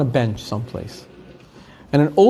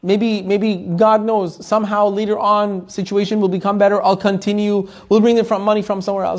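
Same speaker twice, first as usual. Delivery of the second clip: a little higher, lightly pleading; a touch of pleading, higher; mild pleading; 4 semitones higher than usual. Retold or imitated. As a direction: retell her begging the rabbi, gently. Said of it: "she starts pleading with the Rosh Yeshiva".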